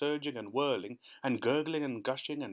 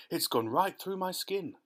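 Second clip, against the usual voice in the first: groaned; 7 semitones higher than usual. Acted. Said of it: "the earthworm groaned".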